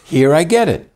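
put-on a touch of American-camp Hebrew accent; imitating Hebrew accent. Mocking Americans who put on a Hebrew accent, slow and loud. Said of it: "they got that Hebrew accent".

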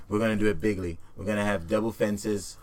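loosely voiced Trump, close to his own voice; a light mock Trump rally boast; Donald Trump impression. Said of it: "my Donald Trump impression down pat".

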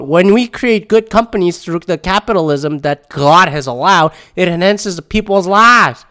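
light Southern twang on a quote; mild put-on Southern US accent. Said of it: "Why am I doing a southern twang".

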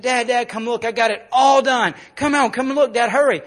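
imitating an excited, hurrying daughter; excited child. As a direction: call out eagerly and urgently. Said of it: "she come running outside and said".

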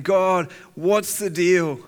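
a preacher voicing David's frustrated cry; mock outcry. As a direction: call out to God, fed up and loud. David crying out to God.

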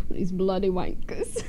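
slow mock English accent; lightly hammed English accent; imitated English accent. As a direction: draw it out in put-on English. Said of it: "speaks like that".

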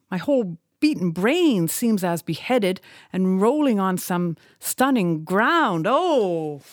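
lightly voiced old captain, raging at the fire; a hint of a defiant captain hurling words skyward; defiant Ahab.

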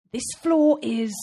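slow, loud, starting to whine; whiny dog. A narrator's reading. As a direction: stretch it into a whine. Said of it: "out came a tinny whine".

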